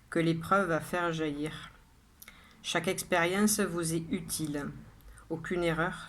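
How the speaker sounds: measured poem reading with pauses after each line; poem recitation. Acted. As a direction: recite it line by line, evenly and deliberately. Reads the poem a third time. (lecture de poème posée, vers par vers)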